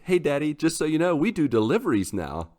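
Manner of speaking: imitating his daughter. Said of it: "eventually she's like".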